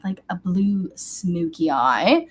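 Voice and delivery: normal talking voice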